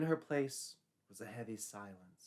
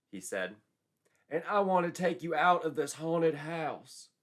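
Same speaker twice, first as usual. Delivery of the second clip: higher, louder earnest proposal; eager suitor; 8 semitones higher, 7 dB louder than usual. A narrator's reading. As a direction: beg her to say yes. Joshua proposes to Betsy.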